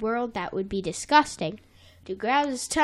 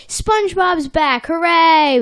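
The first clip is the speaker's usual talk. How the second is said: milder cheer; 6 semitones higher, 7 dB louder than usual. Retold or imitated. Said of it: "he doesn't say it like that".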